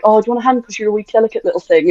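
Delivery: fast, patronising mock offer; condescending offer. Shown as a demonstration. Mocking a patronising man offering help, fast and condescending. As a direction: talk down to her as if she's fragile. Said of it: "rather than like".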